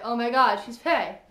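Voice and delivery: loud, gasping oh my god; shocked exclamation. Retold or imitated. Fan reacting to the fae twist, loud and shocked. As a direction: blurt it out in disbelief.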